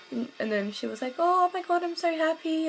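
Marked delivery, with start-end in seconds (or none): 1.2-2.7 excited friend. Retold or imitated. Friend reacts to news on phone.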